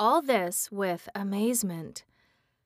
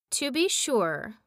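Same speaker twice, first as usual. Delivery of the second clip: thoughtful; 3 semitones higher than usual. Acted. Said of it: "said Mombi thoughtfully".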